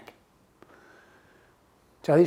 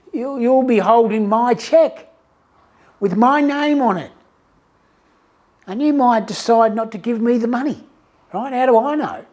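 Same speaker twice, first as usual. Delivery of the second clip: nervous customer; 4 semitones higher than usual. Retold or imitated. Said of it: "I just feel super nervous".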